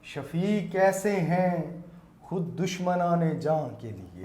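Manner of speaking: slow, measured verse; naat recitation. Acted. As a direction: recite each word with weight. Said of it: "نعت کے چند شعر پیش کرنا چاہوں گا".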